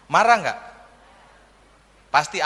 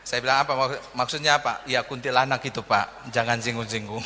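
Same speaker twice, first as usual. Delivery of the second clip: hushed aide; 8 semitones lower, 6 dB quieter than usual. Retold or imitated. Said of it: "ajudannya bilang begini".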